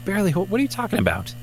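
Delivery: high indignant disbelief. Acted. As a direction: squeak out the outrage. Indignant at portal insult.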